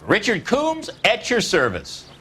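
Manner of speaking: high, drawn-out name, then slow bow of words; showy salesman intro. Acted. Dealer introducing himself to detectives, showy and slow. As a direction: present yourself like a showman.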